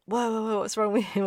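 loud, high alarmed "Whoa, whoa, whoa", stress on "with"; hammed-up startled yell, "with" punched; startled shout. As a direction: boss shouting in shock at a screaming worker. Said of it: "And Ado was like".

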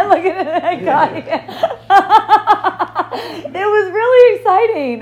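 laughing through the words. Real, not acted. Telling a friend about the police visit, laughing. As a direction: giggle it out, delighted.

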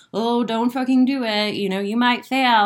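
a lightly voiced nagging inner critic; mild mock naysayer, half-hearted. The peanut gallery in her head heckling her, lightly mocking. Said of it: "peanut gallery in our head that's like".

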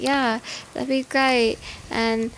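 flat deadpan monotone. Retold or imitated. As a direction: say it with no inflection. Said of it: "completely normal and monotone voice".

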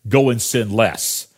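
wry, joking twist on the line; deadpan jest to the staff; playful mock command; tongue in cheek. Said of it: "tongue in cheek".

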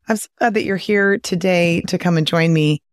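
normal talking voice

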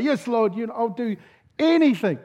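acted high-pitched pleading promise; desperate cry. Hiker promises God whatever He asks, acted desperate plea. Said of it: "In desperation, he cries out".

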